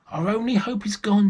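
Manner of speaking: high, loud despairing wail; crying out in despair. Acted. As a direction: wail it like a mother who has lost everything. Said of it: "she cried".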